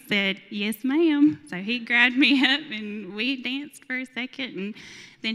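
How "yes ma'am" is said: higher, loud, emphatic acceptance; eager retold reply. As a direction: imitate a man jumping at the invitation. Imitating man's eager reply to dance.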